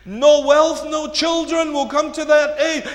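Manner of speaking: loud, high preaching; projected and insistent; forceful warning. Real, not acted. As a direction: proclaim the warning to the congregation. Warning repeated at full force.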